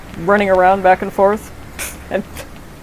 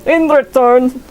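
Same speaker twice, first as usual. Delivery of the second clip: cackling with delight over a ball; excited character voice; 5 semitones higher than usual. Pretend. Voicing game character's delight.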